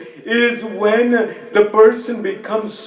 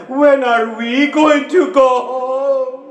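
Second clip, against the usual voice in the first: sobbing plea; 3 semitones higher than usual. Acted. Child Sakina pleading to go home.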